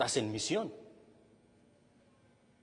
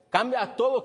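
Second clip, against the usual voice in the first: "Cambia todo" said higher and louder; emphatic repeat; 5 semitones higher, 4 dB louder than usual. Shown as a demonstration. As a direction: hammer home "Cambia todo" the second time.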